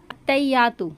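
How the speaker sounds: अत्तहियातु with the double त not held, said quickly; the wrong habit: अत्तहियातु with a light single त. Shown as a demonstration. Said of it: "तो ये बिल्कुल गलत तरीका है". (गलत उच्चारण, त पर तशदीद नहीं)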